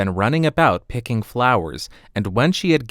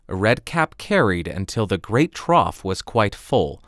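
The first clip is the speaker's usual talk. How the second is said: plain reading voice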